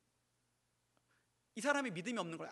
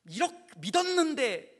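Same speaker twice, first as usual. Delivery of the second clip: higher, louder wounded protest; betrayed cry; 7 semitones higher, 8 dB louder than usual. Acted. Believer cheated by a false god, a higher, louder wounded outcry.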